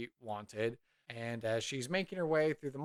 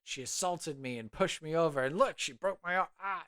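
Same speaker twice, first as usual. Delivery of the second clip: lightly hammed-up aggrieved mayor; playing it up; 3 semitones higher than usual. Mayor complaining of assault, playing it up. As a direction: put on a mild show of wounded outrage. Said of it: "playing it up".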